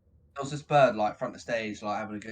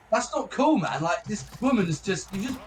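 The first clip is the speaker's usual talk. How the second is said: high, louder telling-off; retold scolding; 7 semitones higher, 6 dB louder than usual. Guitarist retells telling off the groper.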